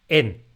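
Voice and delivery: "en" suelto, con su propio acento; en aislada con golpe de voz. Shown as a demonstration. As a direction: di "en" sola, acentuada. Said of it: "si yo ahora digo en, la he dicho aislada". (la preposición "en" pronunciada aislada con golpe de voz)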